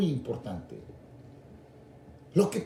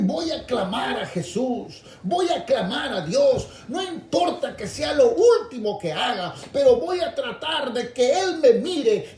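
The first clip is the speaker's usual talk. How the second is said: determined cry; 6 semitones higher, 3 dB louder than usual. Retold or imitated. Preacher voicing the blind men's resolve to call Jesus, rising shout.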